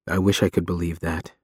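quiet, forlorn regret; plaintive. Acted. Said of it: "He sounds forlorn".

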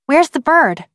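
lightly voiced high child; questioning girl. A narrator's reading. Girl suddenly questions the adults.

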